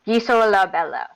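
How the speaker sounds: Gi So La Bella in separate, deliberate syllables; sounded-out name. Acted. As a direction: say Gi So La Bella carefully, as if reading it phonetically. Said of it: "He's gonna say it like that every time".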